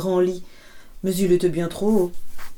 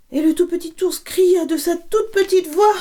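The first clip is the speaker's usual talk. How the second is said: excited telling; 10 semitones higher than usual. A narrator's reading. Storyteller builds excitement.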